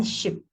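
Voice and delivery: ship with a short quick i. Shown as a demonstration. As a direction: clip the vowel in ship. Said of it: "shorter E".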